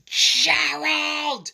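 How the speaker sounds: high, loud exasperated cry; exasperated call. Acted. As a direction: call out in frustration.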